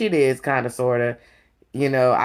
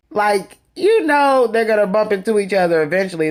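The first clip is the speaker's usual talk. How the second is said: mock shocked; 4 semitones higher than usual. The host imitating Anthony reacting to Drew's gala story, mock shocked. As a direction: act out Anthony's fake shock lightly. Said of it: "And he was just shocked".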